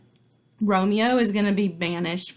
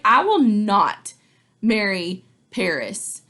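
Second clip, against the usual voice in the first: slow, firm "I will not"; stubborn refusal; 4 dB louder, slower than usual. Retold or imitated. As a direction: plant your feet and refuse. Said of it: "She's like".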